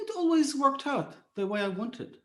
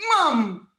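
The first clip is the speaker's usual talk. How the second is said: angry shout; 7 dB louder than usual. Retold or imitated. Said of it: "with teenage anger".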